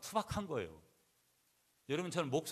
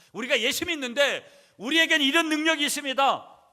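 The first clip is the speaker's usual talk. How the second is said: very loud, high-pitched proclamation; full-force preaching; 14 semitones higher, 16 dB louder than usual. Acted. Preacher declaring believers' power to congregation, full-force proclamation. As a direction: proclaim it at the top of your voice.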